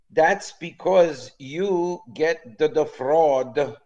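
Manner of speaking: slow, lightly Italian waiter voice; Italian accent. Retold or imitated. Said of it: "And he said".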